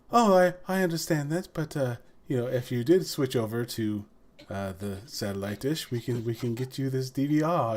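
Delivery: lightly imitated posh British accent; posh British gentleman. Salesman pitching a DVR, in a posh British accent. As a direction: sales patter in a mock upper-class British accent. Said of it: "posh British gentleman".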